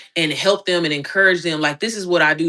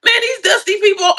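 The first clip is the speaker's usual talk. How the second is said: mock disgust; 13 semitones higher, 5 dB louder than usual. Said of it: "I'm like".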